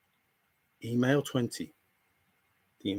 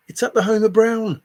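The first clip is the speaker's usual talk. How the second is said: loud, high insistence; 7 semitones higher, 6 dB louder than usual. Real, not acted. Telling a doubting viewer where it is, loudly. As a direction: blurt it out louder and higher. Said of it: "first take before slow repeat".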